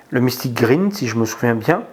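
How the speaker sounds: English name with a French accent. Real, not acted. Vlogger naming a filament colour to viewers, French accent. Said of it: "excusez mon accent".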